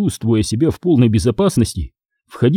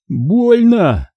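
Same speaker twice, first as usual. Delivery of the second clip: much higher, whining complaint of pain; whiny complaint; 9 semitones higher than usual. Acted. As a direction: whine like a hurt child. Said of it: "пожаловался нам Говоров". (жалуется на боль, хныча)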